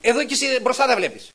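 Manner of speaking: high, loud panicked pleading; frightened wife. Retold or imitated. Scared wife begging her husband to watch the road, high and loud. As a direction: beg him to keep his eyes on the road. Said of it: "Και λέει η γυναίκα μου".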